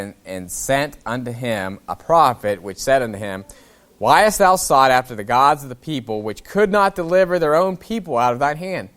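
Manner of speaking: measured King James reading; scripture reading. Acted. Pastor reading scripture to his church, measured. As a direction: read the passage out to the congregation.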